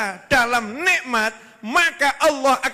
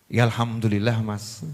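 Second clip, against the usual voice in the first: much lower, gentle wife's thanks; grateful wife; 12 semitones lower than usual. Retold or imitated. Wife thanking her husband, lower and gentle.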